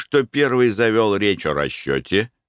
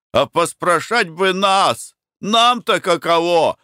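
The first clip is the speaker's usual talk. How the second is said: higher, slow aggrieved plea; complaining worker; 9 semitones higher than usual. A narrator's reading. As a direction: plead the workers' case, pitched up. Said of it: "сказал Сидор Аверьянов". (рабочий жалуется хозяину, высоко и медленно)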